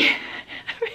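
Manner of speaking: teary breathy laugh. Real, not acted. Vlogger breaks down reading a poem, teary laugh. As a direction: laugh at herself mid-cry. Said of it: "because I can't get it together".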